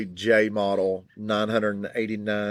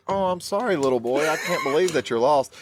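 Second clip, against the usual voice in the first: mild gentle subtitle voice; 4 semitones higher than usual. Retold or imitated. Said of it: "he's like".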